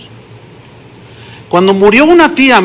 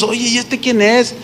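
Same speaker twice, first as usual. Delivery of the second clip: hushed aside; 6 dB quieter than usual. Retold or imitated. Whispering among family at funeral.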